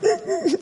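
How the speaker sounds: high, brief mock sobbing; imitated crying. Father showing how his daughter cried at a movie, imitated crying. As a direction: mimic a child's whimpering cry. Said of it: "like that, crying".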